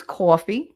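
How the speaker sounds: "coffee" as CAW-fee; Jersey accent. Shown as a demonstration. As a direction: round the first vowel of "coffee" into AW. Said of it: "it's C A W F F E E".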